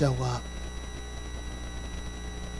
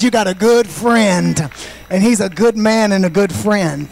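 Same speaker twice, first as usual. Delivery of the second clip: raised, emphatic preacher delivery; rousing preaching; 6 semitones higher, 7 dB louder than usual. Acted. Preacher asking the church about loyal friends, rousing and emphatic. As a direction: press it on the congregation.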